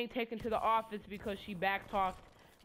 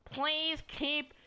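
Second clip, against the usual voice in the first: obnoxious mic announcement; 4 semitones higher, much slower than usual. Retold or imitated. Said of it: "her obnoxious microphone".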